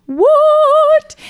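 very high, loud whoop of disbelief; drawn-out, squealed reaction; exclaimed shock. Retold or imitated. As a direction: shriek it like plunging downhill too fast. Retold shock at downhill speed.

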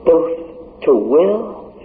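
slowly emphasised scripture; slow, drawn out. Acted. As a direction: stretch each word of the verse. Preacher drawing out scripture phrase.

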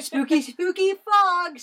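high, slow ghostly spooky fog. Acted. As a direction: drag it out eerily.

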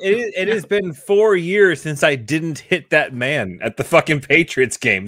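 a bad Boston accent, worked up; shitty Boston accent. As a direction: rant like a Boston sports fan. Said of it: "I'm just doing a shitty Boston accent".

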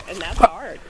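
words caught by a cough; talking through a cough. Real, not acted. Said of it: "I'm sorry, I'm coughing".

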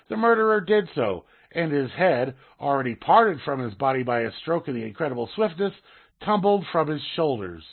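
steady story reading voice; reading aloud. Acted. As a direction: read the anecdote out like a column. Reads Hitchens column aloud.

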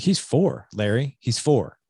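retold scolding, pitch jumping up on "four"; wife's reproach. Wife to husband about their four-year-old, reproachful. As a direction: imitate a wife pointedly calling out her husband. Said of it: "she never talks to me like that".

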